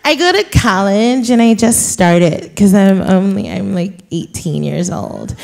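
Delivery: lightly voiced girlish student; a hint of little-girl Valley talk; Becky voice. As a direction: play a young college girl on the phone. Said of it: "this is my Becky voice".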